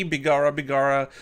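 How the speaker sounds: half-hearted mock-Irish exclamations; bad Irish accent. Reviewer hamming up his first Irish whiskey, bad Irish accent. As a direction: have a clumsy go at an Irish accent. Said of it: "I can't do an Irish accent".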